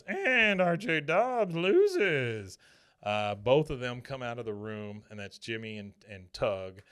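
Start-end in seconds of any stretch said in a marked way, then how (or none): 0.0-2.6 loud, high, very drawn-out race call; announcer. Retold or imitated. Announcer calling the result to a stunned crowd, booming and slow. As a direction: announce the loser in a stretched-out holler. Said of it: "The announcer goes".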